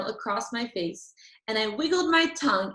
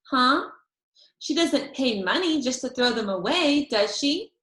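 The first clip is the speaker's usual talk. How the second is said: defiant challenge; 3 semitones higher, 3 dB louder than usual. Acted. Angry girl challenging May.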